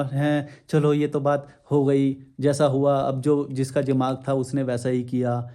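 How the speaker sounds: mock gentle tone. Shown as a demonstration. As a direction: sound saintly and forgiving, mockingly. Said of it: "मैं भी ऐसे बोल सकता हूँ".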